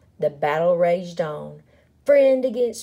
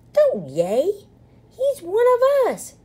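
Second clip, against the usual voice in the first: high, loud scolding yell; 14 semitones higher, 5 dB louder than usual. A narrator's reading. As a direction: yell at the crowd in protest. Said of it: "yelled Pip".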